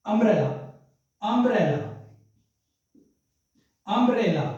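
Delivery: अम्ब्रेला repeated with long pauses and falling ends; pronunciation demo. Shown as a demonstration. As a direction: say अम्ब्रेला as an isolated word, opening on a clear vowel. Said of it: "pronunciation का मतलब उच्चारण".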